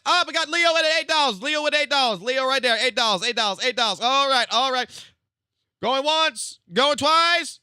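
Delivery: loud, high auctioneer calling bids. Pretend. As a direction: hype up the bidding like an auctioneer.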